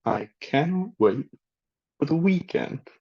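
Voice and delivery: "weekend" as one word, first part emphasized; model sentence to repeat. Shown as a demonstration. Teacher repeats for learners to follow, compound stress on "week". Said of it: "say with me after me".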